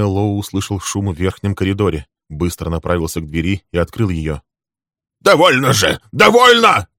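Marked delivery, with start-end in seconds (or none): 5.2-6.9 loud, much higher cry to stop them; building to a piercing shout; exclaiming. A narrator's reading. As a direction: Friedman crying out to end the quarrel. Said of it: "воскликнул он".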